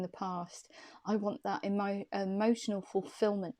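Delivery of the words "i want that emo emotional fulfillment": put-on slips into a light Australian accent; a faint Australian twang on the wish; un poco de acento australiano; accidental Australian accent. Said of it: "Why did I just sound Australian then?".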